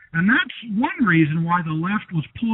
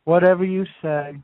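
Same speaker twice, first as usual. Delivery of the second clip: obsequious. Acted. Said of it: "talk like a British servant".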